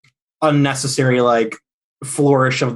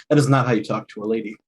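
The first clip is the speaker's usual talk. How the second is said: stern rebuke; 4 semitones lower, 3 dB quieter, much faster than usual. Acted. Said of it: "put my sword to his neck and say".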